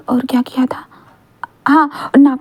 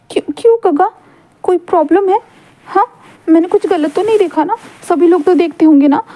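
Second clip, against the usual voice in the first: put-on higher, whiny hurt boyfriend plea; pleading Wing; 5 semitones higher than usual. Boy begging his boyfriend to take it back, rising whine. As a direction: beg him not to deny it, voice climbing up. Wing defending himself to Wang ji.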